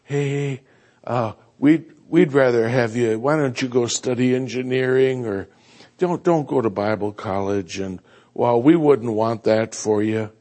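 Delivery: a hint of an anxious parent; worried parents. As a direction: steer the kid away gently. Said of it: "parents are saying to their kids".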